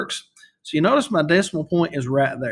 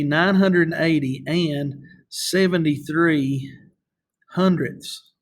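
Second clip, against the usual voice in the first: slow, careful read of the full number; correct careful reading; slower than usual. Shown as a demonstration. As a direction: read it out properly, word by word. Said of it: "the way that we should read those numbers".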